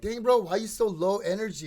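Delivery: hyped caller. Retold or imitated. Imitating energetic caller.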